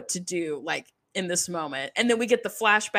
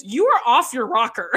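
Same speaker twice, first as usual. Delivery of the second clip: laughing mock Abby; 3 semitones higher, 6 dB louder than usual. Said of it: "and she goes".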